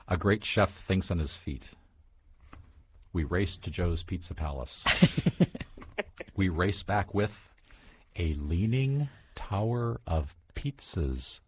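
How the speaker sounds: storybook read-aloud; picture book read-aloud, lightly animated; reading to children. Acted. Author reads picture book aloud.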